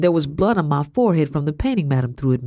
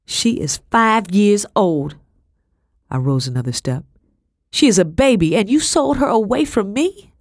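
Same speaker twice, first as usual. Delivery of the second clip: anguished anger; 6 semitones higher than usual. Acted. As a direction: cry out in disbelief and rage. Anguished accusation about sister.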